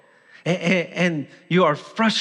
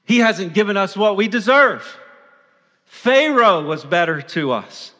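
loud, indignant complaint; venting; 3 semitones higher, 4 dB louder than usual. Acted. Israelites complaining about God in the wilderness, venting. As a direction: vent it out, raised and forceful. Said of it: "They began to vent".

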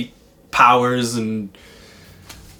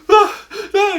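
mock whimper; 5 dB louder than usual. Retelling boy's distress at the verdict.

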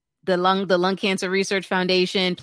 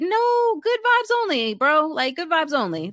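retold sassy refusal; 9 semitones higher than usual. Acts out refusing the doctor's pity.

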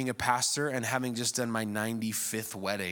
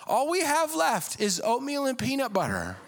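louder, higher mock rant; mock furious; 10 semitones higher, 5 dB louder than usual. Broke young spouse threatening to leave, mock angry rant. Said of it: "It was a lot of".

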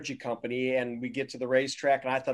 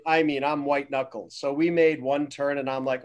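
normal talking voice

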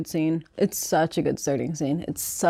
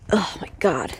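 unvoiced, breathy oh my God; whispered exasperation. Real, not acted. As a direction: whisper it in disbelief. Exasperated aside.

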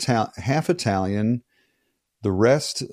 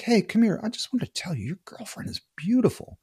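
imitating a guy, pitched well up; high mock stranger voice; 12 semitones higher than usual. Stranger stops him to compliment his girlfriend, high mock voice. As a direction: do the eager stranger a lot higher.

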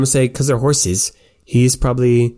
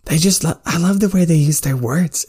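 beaming delight; 7 semitones higher than usual. Acted. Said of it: "Sympathy is just beaming".

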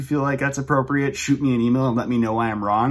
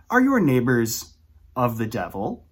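ominous. Pretend. Contrasting grim and happy neighbors.

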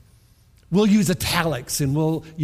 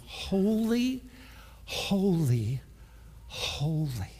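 hushed reverent; 8 dB quieter, much slower than usual. Acted. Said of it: "Listen to what Isaiah says".

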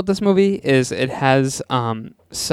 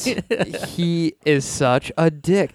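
indignant; 4 semitones higher, much slower than usual. Real, not acted. Outraged about the character.

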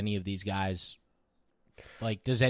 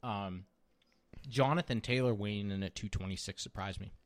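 talking while chewing food; mouth full. Real, not acted. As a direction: speak through a mouthful of food. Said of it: "as I chew with my mouth full here".

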